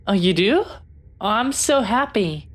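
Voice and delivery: delighted, pitch lifting with glee; happily excited. Acted. Captain-to-be hears a new friend accept, happily excited. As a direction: let relieved joy lift the voice.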